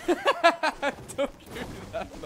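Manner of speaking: mock anguish. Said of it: "I'm losing my marbles right now".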